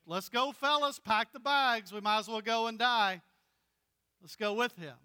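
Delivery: lightly voiced Thomas rallying the fellas; resigned realist Thomas. Thomas telling fellow disciples to go and die, lightly voiced. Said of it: "Thomas is the realist".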